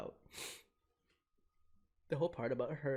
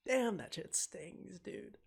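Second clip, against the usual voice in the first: higher, slow, pained exclamation; emotional outburst; 7 semitones higher, much slower than usual. Real, not acted. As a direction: let the hurt burst out. Streamer moved by sad scene.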